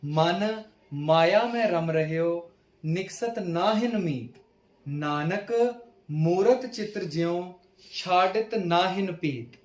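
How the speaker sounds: slow, measured verse reading; scripture recitation. Acted. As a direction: recite each line slowly, stretching the words.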